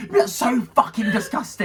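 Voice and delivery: high, slow, appalled exclamation; mock disgust. Bag owner after friend vomits in it, appalled disgust.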